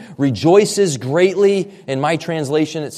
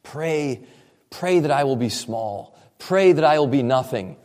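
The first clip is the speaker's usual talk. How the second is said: a hint of pious sincerity; pious young missionary. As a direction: play the humble, eager young missionary. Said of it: "is all, all pious".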